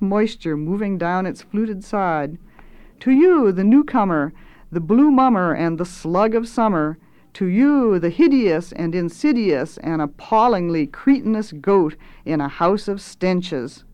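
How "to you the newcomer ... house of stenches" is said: mock-ceremonial insult, strong openings; lordly cook's oratory; grandiose chef. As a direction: proclaim each insult with relish. Swelter's mocking address.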